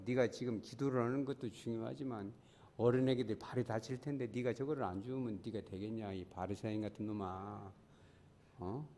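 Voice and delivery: inner conflict. Retold or imitated. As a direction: scold yourself under your breath, as if in prayer. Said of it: "마음속에 그렇게 기도하는데 갈등이 와요".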